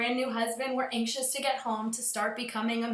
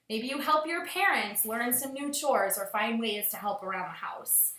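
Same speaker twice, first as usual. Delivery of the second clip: put-on a gentle address to the children; teacher reminding students to enjoy the days at home; teacher talking to class. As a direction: speak kindly to your pupils. Teacher addresses class after story.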